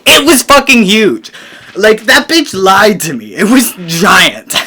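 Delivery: outraged exclaiming. Real, not acted. Telling viewers about the huge probe, outraged and loud. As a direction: hammer home how giant it was.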